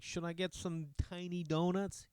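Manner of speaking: a little devil on the shoulder, drawn out; asking himself. Retold or imitated. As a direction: tempt yourself in a sly sing-song. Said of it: "I'm like".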